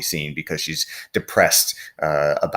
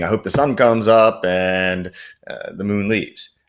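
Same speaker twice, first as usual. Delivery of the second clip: plain paraphrase; 3 semitones higher than usual. Shown as a demonstration. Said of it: "rather than just saying".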